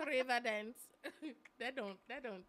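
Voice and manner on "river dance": punchy mock Irish; jokey Irish accent. Shown as a demonstration. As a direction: fake an Irish accent, amused. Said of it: "Y'all wanna hear my Irish accent".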